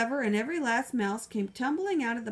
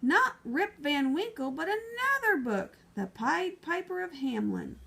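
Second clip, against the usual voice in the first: alarmed librarian; 6 semitones higher than usual. Acted.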